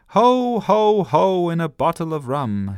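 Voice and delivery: high, loud pirate cry; pirate shout. A narrator's reading. Girl playing pirate shouts from the bath. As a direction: bellow it like a bath-time pirate. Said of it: "she shouted".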